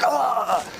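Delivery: high "ah" as if kicked in the chest; winded cry. Retold or imitated. Jumper kicked in the chest mid-air, mock winded cry. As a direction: imitate having the wind knocked out. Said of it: "knocks the wind out of me".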